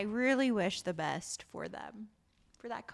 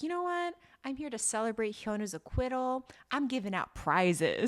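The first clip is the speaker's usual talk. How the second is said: mock host; 3 semitones higher than usual. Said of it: "She's like".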